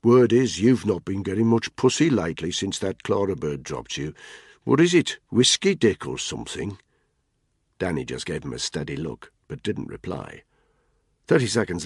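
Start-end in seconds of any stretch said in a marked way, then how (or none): 0.0-6.8 Tony's mocking voice. Tony teases Spud about his bike, mocking and raised. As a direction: needle him with a grin.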